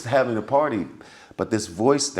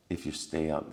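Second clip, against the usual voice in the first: calm suggestion; 3 semitones lower, 9 dB quieter than usual. Retold or imitated. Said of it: "very calmly".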